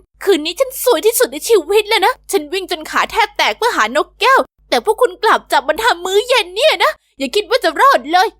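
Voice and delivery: indignant scolding. Acted. Jen confronts homeless over parrot.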